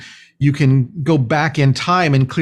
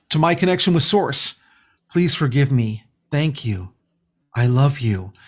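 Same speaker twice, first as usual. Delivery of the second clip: heartfelt. Shown as a demonstration. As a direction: feel every word as you say it. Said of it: "We're coming in and going".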